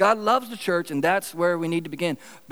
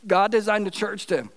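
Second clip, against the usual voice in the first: voice cutting out; 3 semitones higher than usual. Real, not acted. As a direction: voice cutting out mid-sentence. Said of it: "I just totally lost my voice".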